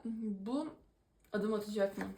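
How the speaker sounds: speaking through a yawn. Real, not acted. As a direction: yawn while asking. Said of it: "Ben çok esniyorum". (esneyerek konuşuyor)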